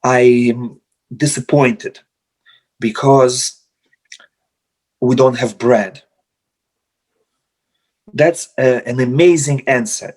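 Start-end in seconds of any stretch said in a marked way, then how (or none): 0.0-6.0 gentle complaint. Retold or imitated. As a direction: let him down gently, no blame.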